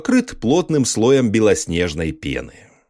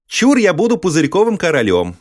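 grand proud announcement, higher; proclaiming; 6 semitones higher than usual. A narrator's reading. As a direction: proclaim like a little king. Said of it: "провозгласил Стёпыч". (торжественно провозглашая)

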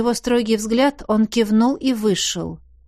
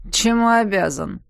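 host-like ease. Acted. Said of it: "словно Ариадна явилась к нему в дом".

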